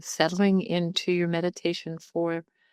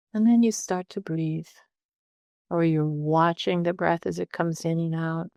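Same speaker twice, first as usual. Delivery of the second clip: calm meditation guide with long pauses; unhurried, conversational meditation instruction; guided meditation. Real, not acted. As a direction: talk listeners gently through settling in, leaving space between phrases.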